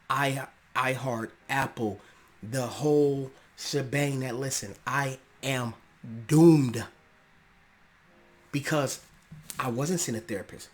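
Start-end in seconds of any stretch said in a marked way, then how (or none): 4.9-6.8 full shout on doomed. Real, not acted. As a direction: belt the verdict out loud. Third repetition, loudest.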